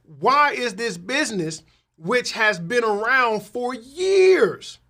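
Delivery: can't believe the family business is gone; shocked disbelief. Retold or imitated. Asking a friend why his legacy business closed, shocked. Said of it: "And I'm like".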